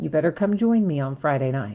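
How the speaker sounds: tough-talking wiseguy mobster delivery. Urging viewers to join him on Friday night: sounding like a mobster. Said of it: "I know I sound I sound like a mobster".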